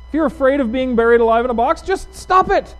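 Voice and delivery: comic therapist losing patience, high-pitched; exasperated comic yelling. Retold or imitated. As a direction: scold fast, then yell the command. Therapist berates patient in retold skit.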